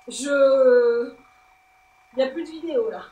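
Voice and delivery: hammed-up reality TV candidate cry; Sarah from Koh-Lanta. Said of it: "Piètre imitation de Sarah de Koh-Lanta".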